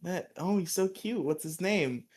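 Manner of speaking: put-on high, soft, swooning girl's voice; a breathy-free high flutter over a cute boy. Girl fawning over Skull in the juice bar, high soft voice. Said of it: "a cute girl is like".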